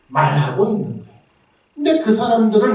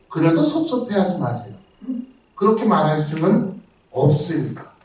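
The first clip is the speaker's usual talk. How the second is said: ordinary talk, nothing marked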